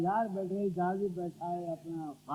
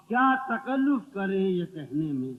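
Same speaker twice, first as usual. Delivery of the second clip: measured mushaira recital, each line set apart; ghazal recitation; 5 dB louder than usual. Acted. Poet reciting a couplet to the gathering, ghazal recitation. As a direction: recite verse for an audience.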